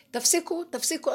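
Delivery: a retold divine shout; shouting stop. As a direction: voice God yelling at people to quit. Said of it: "השם צועק".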